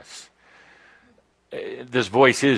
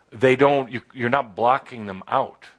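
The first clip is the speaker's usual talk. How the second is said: normal talking voice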